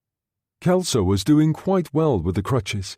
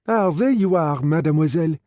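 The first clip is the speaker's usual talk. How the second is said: higher, lightly voiced lady of the house; lightly voiced Helen; 5 semitones higher than usual. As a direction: greet her brightly as the hostess. Helen greets Sarah.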